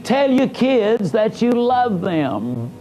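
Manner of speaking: slow, each word laid down gently; slow tender quote. Retold or imitated. Quoting his own tape to a caller, slow and tender. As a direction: read the tape's advice to a listener, slowly and tenderly. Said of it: "you say".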